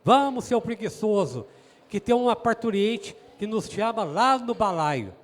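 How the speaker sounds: mock holler, urging the priest along; retold shouting. Doctor rousing the lazy priest for a birth, mildly shouting. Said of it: "começou a gritar assim".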